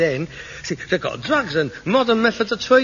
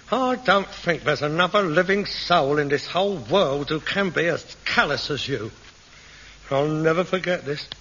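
wounded self-pity; 4 semitones lower, 4 dB quieter than usual. Acted. Son wounded by callous father.

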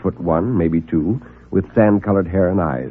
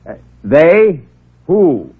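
baffled; 6 semitones higher, 5 dB louder, much slower than usual. Acted. Reporter baffled.

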